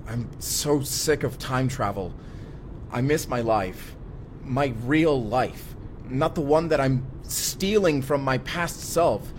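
rising despair, slow and pressing; anguished outburst. Acted. Time traveller venting despair over his stolen life, rising and slow.

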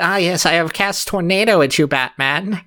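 lightly voiced cartoon villain; a hint of a gloating Skeletor. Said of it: "I like this Skeletor voice of, of Joker".

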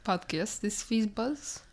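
understated fake French accent; comic French-accented English; mock French accent. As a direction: praise it as a pretend French speaker.

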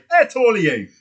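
loud, high-pitched mock call; mock shouted question. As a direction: yell it like you're hailing a celebrity. Acted mock call to the actor.

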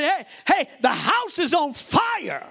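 high, slow shouted warning; retold warning scream. Pastor retelling his warning to leaders, shouted alarm. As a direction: yell the alarm like the house is burning. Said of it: "I was screaming".

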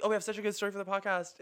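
fast, giggly mock excitement; laughing quote. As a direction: rush it out while laughing. Quoting themselves, still laughing.

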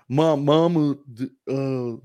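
mock movie-character stammer; Forrest Gump. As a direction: stammer it out in a mock slow-witted voice. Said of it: "and talked like him too".

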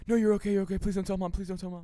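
high, loud pleading hush; soothing a child. Retold or imitated. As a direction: beg a crying sibling not to tell. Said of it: "when your sibling, like, hurts you and they start crying".

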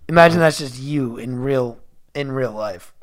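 smooth public radio host voice; low, intimate radio announcer read; NPR voice. Acted. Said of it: "you really took on an N P R voice there at the end".

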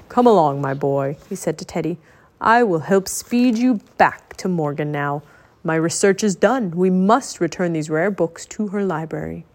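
put-on old wizard voice. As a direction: speak like a commanding old wizard. Merlin speaking.

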